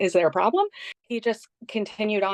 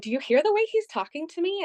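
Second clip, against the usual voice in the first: retold indignant appeal; 9 semitones higher than usual. Retold appeal to her husband.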